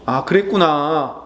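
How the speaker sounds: 아, 그랬구나 drawn out gently; empathetic acknowledgment. Shown as a demonstration. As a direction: say it like you truly get it, slowly. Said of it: "그 마음을 읽어줘야 돼요".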